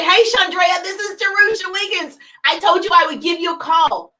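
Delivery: upbeat caller; a touch brighter phone greeting; phone opener demo. Shown as a demonstration. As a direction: sound busy and friendly. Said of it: "I say".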